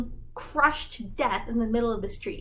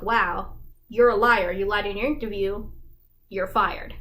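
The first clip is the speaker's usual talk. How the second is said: louder mock outrage, biting on liar; mock accusation; 4 dB louder than usual. Coworkers turning on Fantine, mock accusing. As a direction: scold her as a liar, half in jest.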